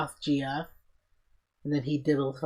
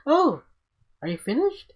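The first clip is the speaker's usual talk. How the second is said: high mom voice; 12 semitones higher, 6 dB louder than usual. Retold or imitated.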